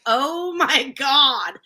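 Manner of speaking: slow, stretched-out retold gasp of sympathy; drawn-out disbelief. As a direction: draw every word out in mild mock shock. Retold reaction of agent.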